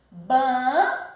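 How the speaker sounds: BA... NA... NEI... RA, four separate beats; syllable by syllable. Shown as a demonstration. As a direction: count out Bananeira with a pause after each syllable. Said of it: "Observe que ela tem quatro sílabas".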